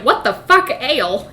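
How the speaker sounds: high, loud startled curse; mock outrage. Matt yelling at the Aiel in mock outrage. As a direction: yell it in mock shock. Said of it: "in tear".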